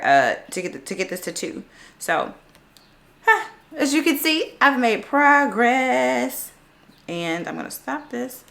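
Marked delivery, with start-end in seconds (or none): 3.2-6.5 proud. Real, not acted. Showing progress proudly.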